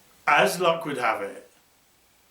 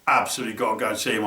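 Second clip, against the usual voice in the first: fast urgent repeat; 3 semitones lower, much faster than usual. Retold or imitated. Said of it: "and I'm like".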